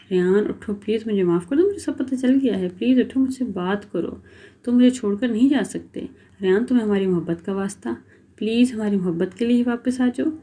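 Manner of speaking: mild sobbing plea. Acted. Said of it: "سسکیاں لے کر رو رہی تھی".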